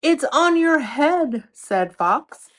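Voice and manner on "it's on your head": excited exclamation. Acted. Fox exclaiming to Ox.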